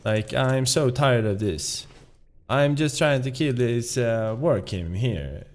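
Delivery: up-and-down Swedish lilt, attacking the words; Swedish-accented English. Shown as a demonstration. Showing how Swedes gripe over a game in English, Swedish accent. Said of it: "they do have tonality".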